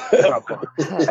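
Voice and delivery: slow laughing terrifying. Real, not acted. Laughing at his own fright.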